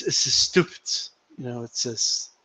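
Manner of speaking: put-on understated, failed Puerto Rican accent. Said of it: "I can't do the Puerto Rican accent".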